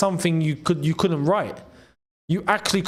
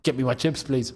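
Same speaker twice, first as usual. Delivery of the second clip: Cole Palmer impression; 3 semitones lower than usual. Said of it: "Cole Palmer's very easy to do".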